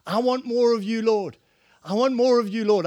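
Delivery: rising worship plea; fervent plea. Real, not acted. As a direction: passionate lyric. Worship lyric builds.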